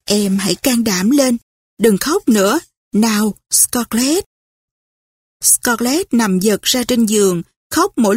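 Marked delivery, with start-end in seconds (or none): 0.0-4.2 soothing. Acted. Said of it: "Melanie vỗ về Scarlett". (giọng dỗ dành nhẹ nhàng)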